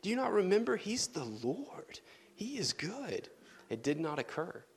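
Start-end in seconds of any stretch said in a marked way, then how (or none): 0.0-3.3 higher, pleading call to the crowd; urgent exhortation. Pretend. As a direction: rouse the people to remember. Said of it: "nobody who rose up who said".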